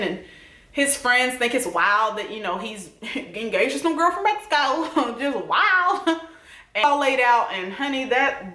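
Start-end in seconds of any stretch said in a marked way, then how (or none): 2.6-6.2 laughing through the words; amused laughing. Real, not acted. Recapping the friends' shock at his engagement, laughing. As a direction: let real laughter break into it.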